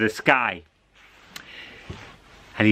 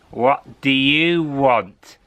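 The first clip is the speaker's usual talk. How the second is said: put-on old lady; 3 dB louder, slower than usual. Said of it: "said the old lady".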